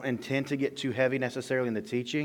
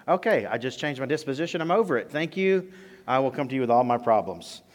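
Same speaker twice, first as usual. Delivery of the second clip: mock cheerful; 2 semitones higher, 4 dB louder than usual. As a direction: pretend to be instantly cured. Sarcastic cured listener.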